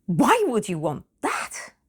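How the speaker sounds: imitating a bewildered mother; baffled objection. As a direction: question it as if appalled by the choice.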